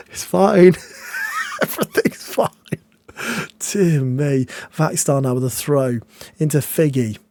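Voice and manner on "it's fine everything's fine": mock calm. Real, not acted. Sarcastic panic after conceding chance.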